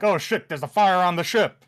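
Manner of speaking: high loud alarmed shout; guard spotting the burning ship and shouting. Retold or imitated. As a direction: turn and bellow the alarm. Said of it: "He turns around and he's like".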